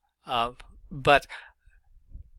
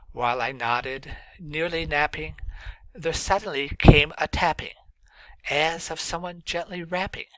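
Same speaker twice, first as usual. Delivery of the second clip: poem reading. Shown as a demonstration. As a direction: paint the picture gently. Teacher rereads poem for imagery.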